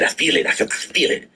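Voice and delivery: mocking a gambler's hunch, breaking into a laugh; teasing imitation of I feel it; whispery mocking hunch that ends in a laugh; mock gambler hype. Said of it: "They always gotta feel it".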